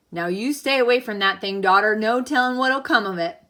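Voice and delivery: lightly voiced stern Pa, warning her off; stern father warning. Pa warns his daughter to stay away from the egg, firm and loud. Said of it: "I couldn't tell if Pa was more scared".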